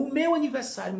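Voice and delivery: lightly imitated attention-seeking child; pestering little brother. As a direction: mimic a kid brother's nagging. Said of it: "Sempre aquela coisa".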